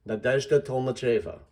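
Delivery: "Nadezhda Tolmacheva" joined up, stressing "dezh" and "che"; full name modeled. Shown as a demonstration. Teacher models the finished name for readers, careful full-name demonstration. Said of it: "so that you know which one has the emphasis".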